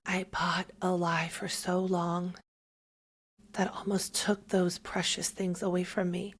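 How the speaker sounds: hushed, confessional whisper. Real, not acted. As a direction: breathe it out, barely voiced, like admitting a regret. Confessing a painful past.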